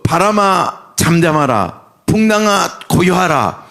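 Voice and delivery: measured command to wind and waves; mildly stern word of command. Acted. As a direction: order the storm to be still, unhurried. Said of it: "지금 명령을 했어요".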